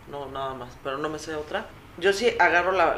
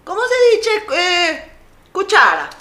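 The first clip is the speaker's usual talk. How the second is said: curious asking; 13 semitones higher, 7 dB louder than usual. Retold or imitated. Asking Italian friends words.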